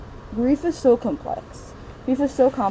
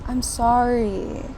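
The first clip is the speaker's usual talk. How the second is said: drawn-out, empty sympathy; slow hollow condolence; much slower than usual. Retold or imitated. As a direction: stretch it out insincerely. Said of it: "they'd be like".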